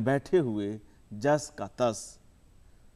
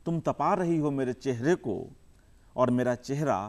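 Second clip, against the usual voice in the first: measured recital with long pauses between phrases; poem recitation; 4 dB louder than usual. Acted. Poet reciting his poem to the audience, measured and unhurried. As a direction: savour each image, let the lines breathe.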